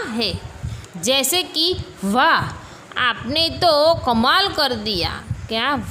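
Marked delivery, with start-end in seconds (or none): 2.0-5.2 mildly exclaimed praise, as an example; a touch of impressed wonder; demonstrated amazement. Shown as a demonstration. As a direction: read it as a teacher's model exclamation. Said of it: "आश्चर्य".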